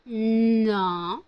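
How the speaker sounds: loud firm scolding. Real, not acted. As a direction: tell the dog off sharply. Scolding her dog Melba.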